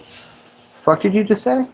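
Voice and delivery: slow, high mock challenge; mock tough guy. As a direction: slide in and confront, hammed up. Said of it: "come back sliding on like".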